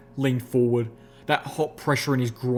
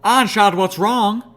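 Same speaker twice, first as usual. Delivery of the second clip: much higher, louder, tearful edge; frightening edge; 9 semitones higher, 7 dB louder than usual. A narrator's reading. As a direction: hit the name with frightening fury. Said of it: "a frightening edge in her voice".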